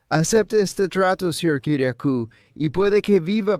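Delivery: imitating the prosecutor. Prosecutor's threat, retold.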